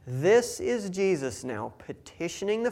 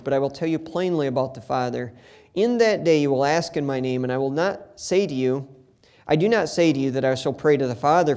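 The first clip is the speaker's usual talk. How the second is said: measured, steady Bible reading voice; scripture reading; 4 dB louder than usual. Acted. Preacher reading Jesus' words to the congregation, measured reading. Reads scripture passage aloud.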